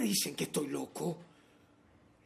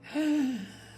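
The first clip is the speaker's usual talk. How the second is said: high, audible intake of breath; theatrical sharp gasp; dramatic gasp; 9 semitones higher, 3 dB louder than usual. Acted. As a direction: gasp in rapt suspense. Madman relives his careful act.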